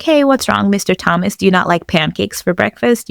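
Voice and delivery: joking tease. Retold or imitated. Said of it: "cracking a joke and being like".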